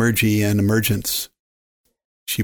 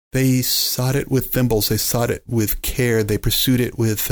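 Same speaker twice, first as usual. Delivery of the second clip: poem recitation. A narrator's reading.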